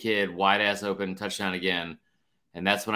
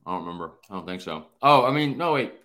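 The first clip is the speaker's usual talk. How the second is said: chewing popcorn while talking; mouth full; 5 dB louder than usual. Real, not acted. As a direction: talk through a mouthful of popcorn. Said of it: "It's great radio hearing you, uh, chew on popcorn".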